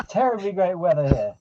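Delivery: put-on British accent. Player keeps the British accent, remarking on weather. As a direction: chat about the weather like a Brit. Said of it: "You're gonna get so much feedback for that accent".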